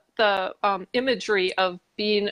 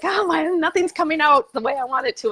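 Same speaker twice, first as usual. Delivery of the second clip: higher, exasperated sigh of a stuck writer; frustrated self-quote; 7 semitones higher than usual. Retold or imitated. Writer stuck at her desk, higher exasperated mutter. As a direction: throw up your hands at the page. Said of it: "I'm writing and I'm like".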